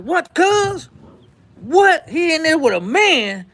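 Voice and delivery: can't believe what he's hearing; jolted awake and stunned; shocked disbelief. Retold or imitated. Red woken, shocked by news.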